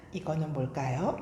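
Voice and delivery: usual speaking voice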